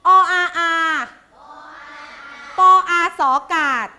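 firm, rhythmic spell-out with a punched start; spelling drill. Shown as a demonstration. Teacher modelling a word for pupils to echo, chanted spelling. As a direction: chant each letter sound, then the syllable. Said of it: "ก่อนจะดูอ่านก่อน".

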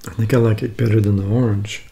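slight jello in mouth; eating while talking; talking between bites. Real, not acted. Seen 0: spoon in jello cup throughout, last bite around -7s.

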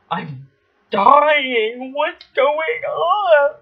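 high, tearful half-shout of panic; panicked crying. Retold or imitated. Scared girl calling to her aunt through the bathroom door, crying. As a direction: wail it like a scared kid who thinks she's dying. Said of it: "I'm crying because I'm like".

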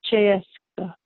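"Cheska" carefully sounded out for a learner; pronunciation demo. Shown as a demonstration. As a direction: show how "Cheska" is said, CHES-kuh. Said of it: "It's pronounced".

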